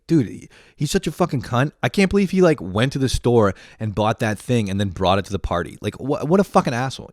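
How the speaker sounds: mock trash talk. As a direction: play the friend bad-mouthing someone. Mock trash talk about acquaintance.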